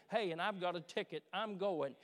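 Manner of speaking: building to a loud, excited declaration; excited preaching. Real, not acted. Preacher telling the congregation he has a ticket to the coronation, excited. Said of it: "Excuse me while I get excited".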